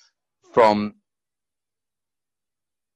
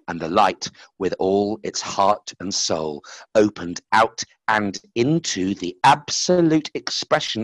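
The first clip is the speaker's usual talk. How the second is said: story reading; slower than usual. Acted. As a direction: read it like a fable. Reads his story aloud.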